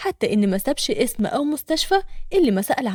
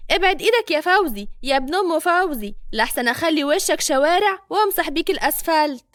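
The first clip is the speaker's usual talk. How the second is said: threatening warning; 4 semitones higher than usual. Acted. Madiha threatens Fawzi.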